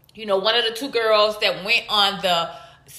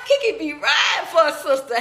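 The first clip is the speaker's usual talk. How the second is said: excited shout; 4 semitones higher than usual. Real, not acted. Hyping viewer, shout.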